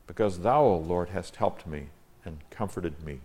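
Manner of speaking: solemn Bible reading with measured pauses; declaimed King James verse; formal scripture reading. Acted. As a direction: read the psalm aloud reverently, phrase by phrase. Reads the psalm aloud.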